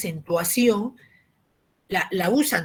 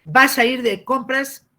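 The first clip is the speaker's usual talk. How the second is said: Aymara-style Spanish; 5 semitones higher, 8 dB louder, slower than usual. Retold or imitated. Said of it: "Tú has escuchado algunas personas que te dicen así".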